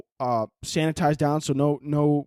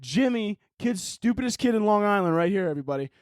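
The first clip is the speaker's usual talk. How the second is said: mock vlogger roast; 6 semitones higher than usual. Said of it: "He's like".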